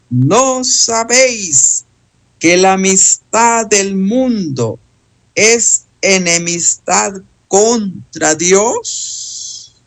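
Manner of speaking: slow, emphatic question in disbelief; deliberate, incredulous reading; astonished. Shown as a demonstration. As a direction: draw out the scripture as a shocked question. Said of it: "Se pronuncia con asombro".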